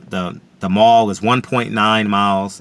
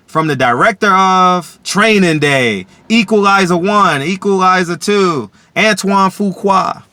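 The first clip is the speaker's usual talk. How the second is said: louder, slow, booming trailer announcer; movie trailer voice; 6 semitones higher, 5 dB louder, slower than usual. Pretend. Imagining a movie trailer, booming announcer voice. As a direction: sell it like a blockbuster trailer.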